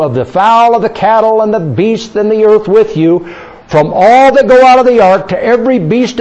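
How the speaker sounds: measured, declaimed Bible reading; scripture reading. Acted. Preacher reading God's promise to Noah to the congregation, declaimed scripture. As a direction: read out God's covenant in a sustained preacher's cadence.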